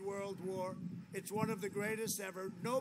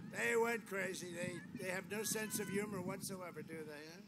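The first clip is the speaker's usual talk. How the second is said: ordinary talk, nothing marked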